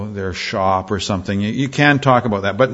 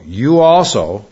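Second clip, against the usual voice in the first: YOU also, louder and drawn out; stress on YOU; 4 dB louder, slower than usual. Shown as a demonstration. Preacher reading out the pronoun in the text, stress on YOU. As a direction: lean slowly on "You" in "You also". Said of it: "this puts an emphasis on the subject".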